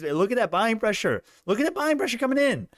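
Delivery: high, thrilled look-at-that; thrilled squeal. Real, not acted. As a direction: point it out squealing with delight. Buying pressure thrills him.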